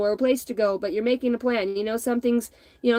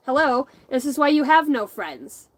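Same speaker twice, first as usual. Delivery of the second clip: mock scolding tease; 5 semitones higher, 5 dB louder than usual. Teasing viewers about aliens.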